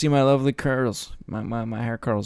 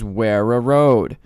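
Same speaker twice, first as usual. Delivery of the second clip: imitating the guy; 6 dB louder, slower than usual. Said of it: "He says".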